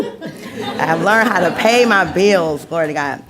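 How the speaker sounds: said through happy laughter; beaming, laughing repeat; laughing with joy. Real, not acted. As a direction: laugh it out, proud of it.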